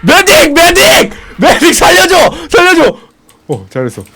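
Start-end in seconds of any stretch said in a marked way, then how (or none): 0.0-3.0 high, loud panicked cry; yelling for help. Real, not acted. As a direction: scream for the medic. Calling for help under attack.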